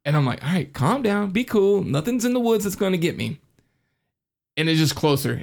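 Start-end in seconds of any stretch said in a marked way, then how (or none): 0.4-3.4 high, mock self-soothing; talking yourself down from a scare; nervous self-reassurance. Talking himself down in the story.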